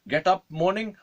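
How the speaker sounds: high, loud imitated commands; old man's orders. Old man alone in his room, calling out orders. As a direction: call out routines in a hammed-up voice.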